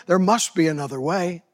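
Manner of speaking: tempting devil. Acted. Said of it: "The devil is whispering".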